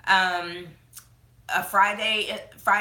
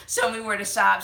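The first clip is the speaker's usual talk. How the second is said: laughing; 5 dB louder than usual. Real, not acted. Laughing while listing travel wishes.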